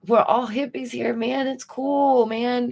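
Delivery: mock hippie. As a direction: play a chill hippie saying it's all cool, man. Mocking the laid-back hippie crowd.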